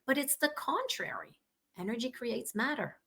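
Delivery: hoarse, fading voice; raspy, voice giving out; losing voice. Real, not acted. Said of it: "I'm losing my voice here".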